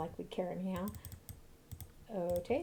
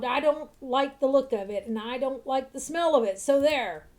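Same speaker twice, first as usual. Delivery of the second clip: a touch of louder, stubborn scolding; mild quarrel; 6 dB louder, slower than usual. Acted. Old man warning Rybald about the wyvern, mildly heated. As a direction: stand your ground, a little heated.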